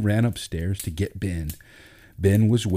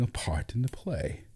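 whispered threat; 5 semitones higher, 8 dB quieter than usual. A narrator's reading. Julius hints at ruining chances.

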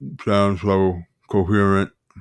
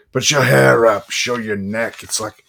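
movie monologue. Acted. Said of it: "If you've never seen The Devil's Advocate".

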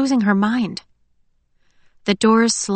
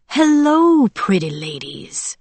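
leering soldier; 4 semitones higher, slower than usual. A narrator's reading. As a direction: greet them like prey, swooping down into a slow leer. Soldier leers at the two women.

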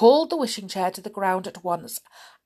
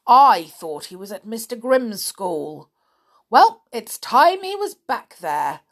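the witch scolds Winks; loud scolding witch; angry witch; 2 semitones higher, 7 dB louder than usual. A narrator's reading. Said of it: "cried the witch".

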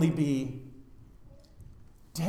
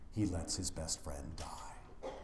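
slow, soft whisper, much lower; 9 semitones lower, 12 dB quieter, slower than usual. Acted. Preacher telling mourners Jesus let his friend die, whispered. Hushed sermon emphasis.

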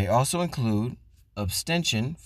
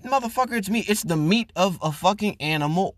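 exasperated; 7 semitones higher than usual. Real, not acted. Ranting at pescatarians.

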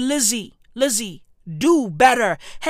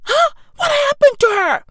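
mock disbelief; 12 semitones higher, 5 dB louder than usual. Mock outrage opening rant.

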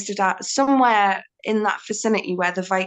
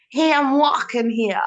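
half-successful New York-style accent; mock East Coast American "walking here"; American East Coast accent attempt; 2 semitones higher than usual. Shown as a demonstration. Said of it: "I can't do it".

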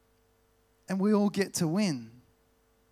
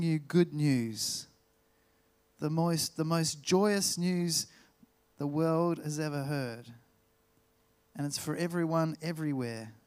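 solemn scripture reading. Acted. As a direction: read it like good news proclaimed. Reads angel's message in Scripture.

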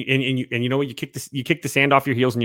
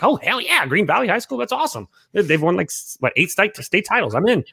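retold excitement; 6 semitones higher than usual. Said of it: "I mean, I was like".

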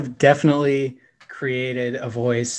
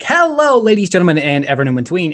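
high, loud, pumped-up intro voice; podcast host voice; 5 semitones higher, 6 dB louder than usual. Shown as a demonstration. Host demonstrating her intro voice to co-hosts, high and loud. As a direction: pump up the energy like a show host. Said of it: "It's like, ... raise my pitch a little bit, pump up the energy".

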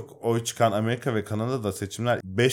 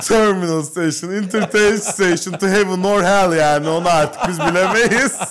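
higher, louder laughing banter; laughing loud joke; 8 semitones higher, 7 dB louder than usual. Real, not acted. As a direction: crack up while joking. Joking loudly about politicians' end.

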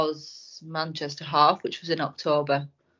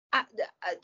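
breathless whispered falter; barely voiced, losing the words; 4 semitones higher, 5 dB quieter than usual. Real, not acted. Trails off mid-sentence.

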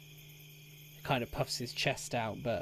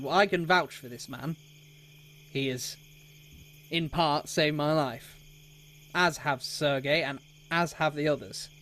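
lightly voiced loyal defender, a bit louder; earnest Sildar; 3 semitones higher, 5 dB louder than usual. Sildar vouches for Johan to Albrecht, lightly voiced earnestness. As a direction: firmly vouch for a friend.

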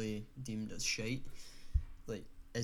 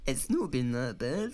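put-on old man voice; 5 dB louder, slower than usual. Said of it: "What you said is".

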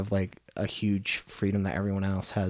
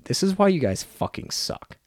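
telling off the solicitor in a raised, higher voice; the fantasy comeback he wanted to shout; imagined angry outburst; 6 semitones higher than usual. Retold or imitated. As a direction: pitch jumps higher into a mock tirade. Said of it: "be like".

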